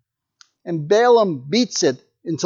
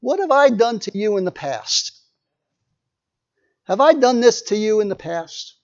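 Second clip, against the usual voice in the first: lightly voiced calm, reasonable donkey. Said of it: "the donkey says in a very calm voice".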